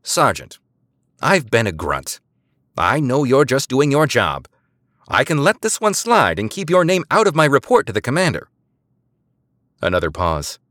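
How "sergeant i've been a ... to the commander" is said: softened voice. A narrator's reading. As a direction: ease off and reassure him. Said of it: "She softened her voice".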